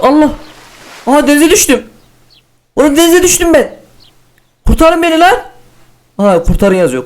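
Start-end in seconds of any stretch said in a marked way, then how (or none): 0.0-5.3 much higher, urgent cries for help; high frantic plea; panicked. Real, not acted. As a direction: call out in alarm from the water. Falling into the sea.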